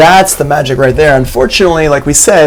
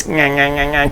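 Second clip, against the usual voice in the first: tight, pinched nyah sound; pinchy voice; 7 dB quieter than usual. Shown as a demonstration. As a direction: squeeze the throat for a thin nyah. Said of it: "a pinchy voice".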